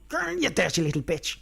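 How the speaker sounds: lightly mimicked abusive leprechaun; a hint of a nasty little leprechaun; rude leprechaun. Leprechaun calling a woman names, lightly mimicked rudeness. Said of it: "he's calling her names".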